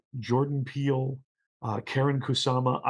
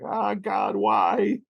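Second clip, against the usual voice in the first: high, rising to a frightened shout; imitating Mel crying out in fright; scared cry; 8 semitones higher, 4 dB louder, much slower than usual. Mel imitated at the haunted house, frightened shout. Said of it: "Mel is gonna be like".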